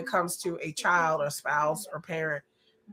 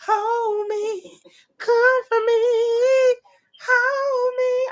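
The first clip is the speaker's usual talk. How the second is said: high, hammed-up whimper for comfort; playful fake crying; mock distress; 13 semitones higher, slower than usual. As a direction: pretend to be overwhelmed and needy. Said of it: "I need somebody to hold me".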